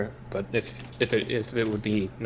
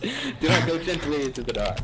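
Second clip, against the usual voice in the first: dramatic recitation; 7 semitones higher than usual. Acted. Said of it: "you got that quote".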